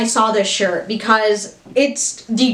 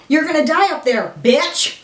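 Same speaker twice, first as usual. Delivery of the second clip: higher, excited mock threat; playful taunt; 5 semitones higher than usual. Vlogger playfully quotes the shirt at viewers, high excited taunt. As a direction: throw the movie line out as a gleeful taunt.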